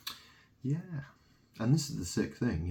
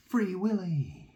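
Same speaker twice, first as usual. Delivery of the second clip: higher, louder, slow taunt; mocking jeer; 10 semitones higher, 5 dB louder, slower than usual. Taunting his late mother, slow higher jeer. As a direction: sneer it out slowly.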